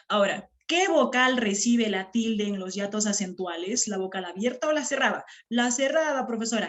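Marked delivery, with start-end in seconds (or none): 5.5-6.7 student answering teacher. Acted. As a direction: lightly act a student's ready reply. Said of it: "eso me respondes". (imitando un poco la respuesta de un alumno)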